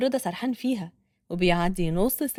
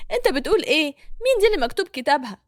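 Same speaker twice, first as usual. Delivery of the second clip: upset woman; 3 semitones higher, 4 dB louder, faster than usual. Acted. Tearful wife confronts Reda.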